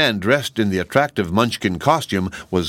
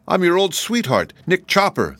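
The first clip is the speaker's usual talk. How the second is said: tin man voice; 10 semitones higher than usual. A narrator's reading. Tin Woodman to old love.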